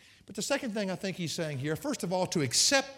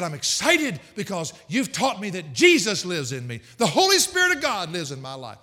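put-on elderly woman's excitement; 2 semitones higher, 7 dB louder than usual. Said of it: "She said".

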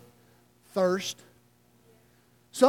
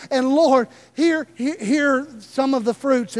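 earnest servant pleading; 2 semitones higher than usual. Retold or imitated. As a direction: pour out a life of hard labor to the Lord, voice raised. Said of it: "stand before the Lord and say".

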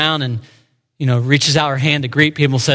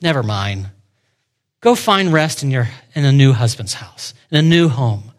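dismissive never mind; 3 semitones lower than usual. Retold or imitated. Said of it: "just kind of stops and goes".

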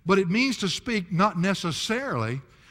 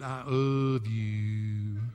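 put-on toddler voice; 6 semitones lower, much slower than usual. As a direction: draw out each word like a toddler. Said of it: "he couldn't get the L out".

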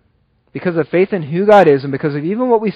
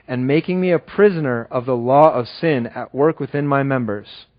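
measured, lower-pitched Bible reading; scripture reading; 3 semitones lower than usual. Acted. Preacher reading Paul's confession to the church, measured recitation. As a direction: read the passage out, settling lower as it goes.

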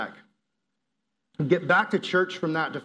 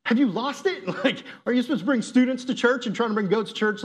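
1 mocking disbelief; 5 semitones higher than usual. Goat owner mocking his request.

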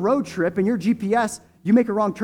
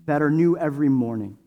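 prayer. Real, not acted. Long prayer before communion.

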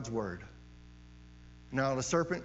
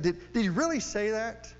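higher, leaning hard on really; mocking serpent, pushed harder; 4 semitones higher than usual. Serpent pressing Eve a second time, higher mock disbelief. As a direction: press the doubt a second time, more incredulous. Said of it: "He is mocking it".

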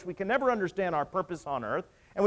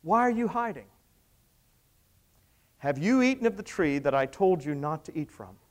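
God calling out; 2 semitones lower than usual. Acted. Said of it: "he cries out to them".

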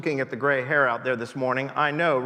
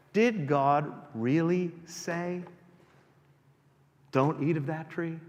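devil's question; 3 dB quieter, slower than usual. Acted. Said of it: "he says".

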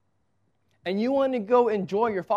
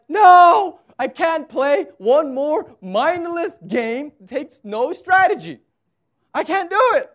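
higher, louder mock-exasperated whine about playing Candyland; grumpy dad outburst; 6 semitones higher, 7 dB louder than usual. Dad to his kids, refusing Candyland: loud, higher, mock-grumpy complaint. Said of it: "sometimes dads can be grumpy".

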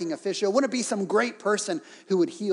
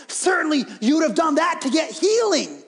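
certainly called out loud and high; servants' shout; 7 semitones higher, 4 dB louder than usual. Retold or imitated. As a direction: urge him on with a near shout. Servants persuading Naaman, shout.

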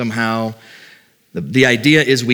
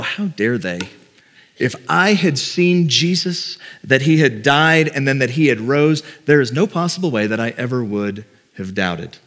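high and mighty. Acted. Preacher mimicking people who judge the doubting disciples, high and mighty. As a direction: put on a self-righteous huff. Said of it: "pretty high and mighty and go".

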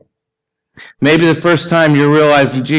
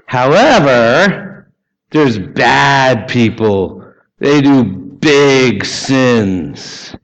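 mock pompous verdict; much slower than usual. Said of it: "it's classic for people to say".

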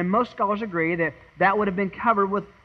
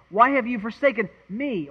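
higher-pitched question leaning on the final "me"; shifted stress on ME; 5 semitones higher than usual. Shown as a demonstration. Preacher trying another accent on Christ's cry, stress on "me". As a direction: carry the weight through to "me". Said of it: "where to put the accent".

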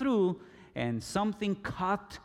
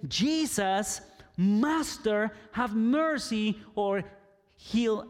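higher, louder call of Jesus, Master, have mercy; megaphone voice; 5 semitones higher, 4 dB louder, slower than usual. Shown as a demonstration. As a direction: cry it out as if through a megaphone. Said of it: "with a megaphone voice".

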